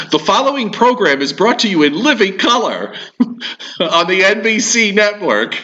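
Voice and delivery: put-on booming old-time network announcer; old radio show. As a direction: announce it like a vintage broadcast. NBC announcer parody.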